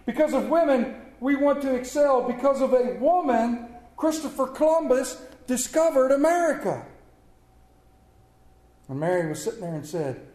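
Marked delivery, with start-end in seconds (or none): 0.1-6.9 high, building oratory; grand mock tribute. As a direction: proclaim it like a grand toast. Quoted husband builds grand tribute.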